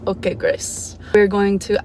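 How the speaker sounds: put-on soft, half-hearted French accent; attempted French accent. Gymnast imitates the French hypnotherapist, soft attempted French accent. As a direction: try a French accent quietly and give up on it. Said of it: "In his, like, adorable French accent".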